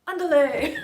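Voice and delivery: hammed-up bullfighter yell; bullfighter cry. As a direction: belt "Andale" like a bullfighter in the ring. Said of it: "I'm like a bullfighter".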